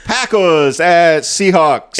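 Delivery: put-on slow, high baby-talk voice. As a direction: drag it out like a toddler. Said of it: "everyone's getting really sick of your baby voice".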